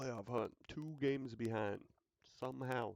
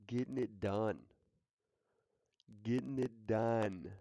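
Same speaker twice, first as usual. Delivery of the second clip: hype call; 5 dB louder than usual. Real, not acted. Hyping up the quarterback.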